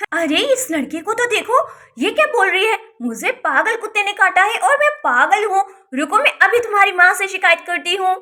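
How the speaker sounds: acted outrage with lively pitch swings; indignant outrage. Aunt insulted by niece threatens to tell, indignant outrage. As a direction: protest indignantly, voice lifted.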